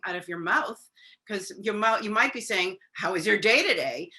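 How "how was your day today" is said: sarcasm. Retold or imitated. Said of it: "saying with sarcasm".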